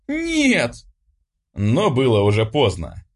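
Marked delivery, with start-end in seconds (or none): 0.1-0.7 high, desperate scream of refusal; girl screaming no as her brother seizes her face; shrieking no. Acted. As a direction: scream it as he grabs you.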